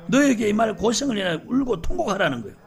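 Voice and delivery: ordinary delivery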